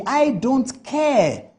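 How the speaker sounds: slow, drawn-out mock indifference; mocking dismissal. Mocking Sam George's Facebook reply, slow dismissive drawl. Quoting his Facebook post again.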